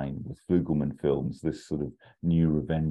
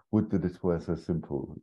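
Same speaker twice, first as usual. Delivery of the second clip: Hail Caesar quote; 2 semitones higher than usual. Retold or imitated. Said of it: "like that amazing scene".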